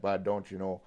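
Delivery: a hint of a jokey Canadian accent; light Canadian accent. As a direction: toss it off in a mild Canadian accent. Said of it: "in this accent".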